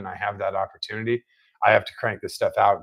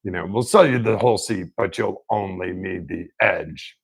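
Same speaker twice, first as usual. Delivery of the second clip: monster truck ad. Retold or imitated. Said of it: "he does all the voiceover stuff for".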